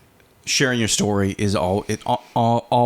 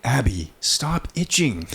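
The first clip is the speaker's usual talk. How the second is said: lightly voiced stern dad, drawn out; mildly firm fatherly telling-off; a hint of daddy voice, slow; slower than usual. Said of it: "I had to use my daddy voice".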